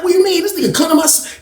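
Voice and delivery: very high-pitched outraged question; re-enacted indignant outburst; indignant protest. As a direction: protest in disbelief, voice shooting up. Retold protest to Benny.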